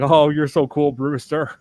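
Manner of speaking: lightly voiced taunting ghoul; a hint of a sneering villain; Evil Ed voice. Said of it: "you hear Evil Ed's voice".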